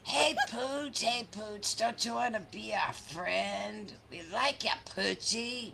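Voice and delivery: sing-song coaxing to the dog. Acted. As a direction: call a dog over kindly.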